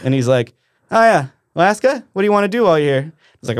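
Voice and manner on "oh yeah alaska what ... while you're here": imitating Big Earl. Voicing Big Earl quizzing him.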